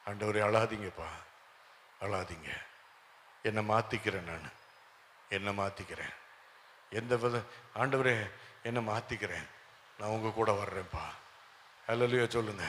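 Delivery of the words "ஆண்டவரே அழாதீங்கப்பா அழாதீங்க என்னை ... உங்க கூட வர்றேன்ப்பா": low, soft, tender plea; tender pleading. Acted. Believer comforting a weeping Lord, tender and pleading. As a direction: soothe gently, keeping the voice down. Tender prayer promising God to change.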